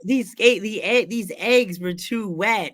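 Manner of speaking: whiny character scolding; Travis Norbert voice. Retold or imitated. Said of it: "You're like".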